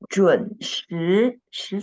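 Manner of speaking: 准时 with 时 rising in second tone. Shown as a demonstration. Teacher correcting a student's tone, second tone rising on 时. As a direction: let the 时 of 准时 climb, not stay level. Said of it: "second tone, not the first tone".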